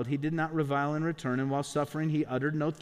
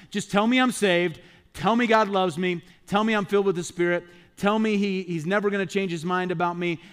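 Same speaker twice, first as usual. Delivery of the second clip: mock demanding; 3 semitones higher, 4 dB louder than usual. Congregation's self-centred view voiced.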